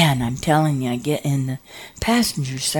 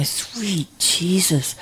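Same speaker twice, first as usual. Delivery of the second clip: slow, hushed gasp of alarm; shocked whisper; 5 dB quieter, much slower than usual. Retold or imitated. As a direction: breathe it slowly, shaken. Hearing a woman scream.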